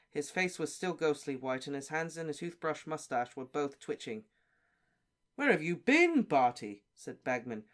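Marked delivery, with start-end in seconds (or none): 5.3-6.8 excited. Acted. Bagman bursting in excited.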